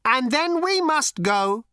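high, slow and grave machine; deadly serious robot. A narrator's reading. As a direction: say it with total solemnity. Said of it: "in all seriousness".

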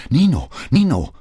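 high, loud cry to someone; alarmed high yell; screaming. A narrator's reading. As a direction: shout the name in alarm. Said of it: "schrie sie".

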